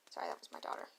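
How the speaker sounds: hushed whisper aside. Real, not acted. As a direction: whisper an apology. Whispered aside after calling.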